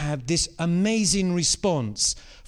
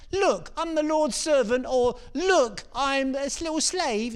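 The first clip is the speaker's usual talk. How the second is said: 1 mock feeble version; 7 semitones higher than usual. Shown as a demonstration. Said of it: "It's not little look".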